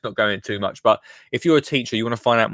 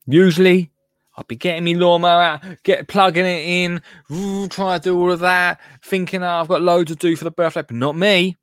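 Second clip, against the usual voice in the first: busy homeowner; 5 semitones higher than usual. Acted. Ad skit, mock busy homeowner.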